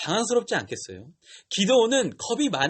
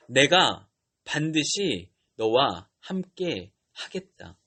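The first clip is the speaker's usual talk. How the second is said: very slow, emphatic divine promise, pitched down; God speaking firmly; 4 semitones lower, much slower than usual. Retold or imitated. God insists to hesitant Gideon, slow and firm. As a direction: separate every word with firm assurance. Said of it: "하나님은 더욱 강하게 말씀하세요".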